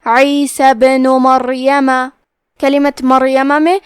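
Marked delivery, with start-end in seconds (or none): 0.1-1.9 عیسی ابن مریم chanted slowly, with a small bounce on the ب of ابن; qalqala on ba. Shown as a demonstration. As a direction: recite عیسی ابن مریم slowly, echoing the stopped ب and sounding the noon. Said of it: "ہم یہ حرف کو ہلاتے ہوئے یہ کلمہ کو پڑھیں گے". (عیسی ابن مریم میں با کو ہلا کر، ٹھہر کر)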